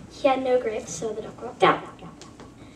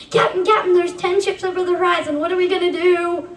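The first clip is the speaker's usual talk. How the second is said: higher, faster worried report; urgent call; 4 semitones higher, faster than usual. Acted. Boy warning the captain of ten ships, higher and hurried. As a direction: rush it out in alarm.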